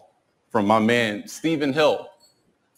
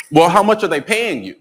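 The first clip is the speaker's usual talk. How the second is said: lightly voiced friend, pitched up; mildly put-on higher voice, probing; pointed homegirl question; 5 semitones higher, 4 dB louder than usual. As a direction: imitate a friend getting to the money. Homegirl asks about the money.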